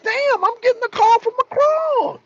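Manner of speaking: high, amazed mock Putin; surprised Putin. Putin seeing Macron's call, high and amazed. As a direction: exclaim in disbelief, pitched high. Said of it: "He's like".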